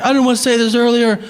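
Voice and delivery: imagined guy bursting with joy; gushing excitement. Pretend.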